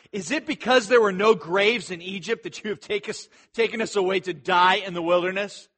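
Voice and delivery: mildly indignant complaint to a leader; bitter complaint. Acted. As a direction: protest with a touch of bitterness. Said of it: "that the people complain bitterly".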